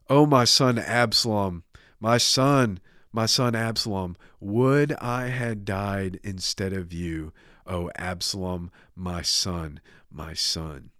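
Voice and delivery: mildly acted lament, fading from loud; grieving lament. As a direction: mourn slowly, sinking toward the end. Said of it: "he's wailing and he's going on".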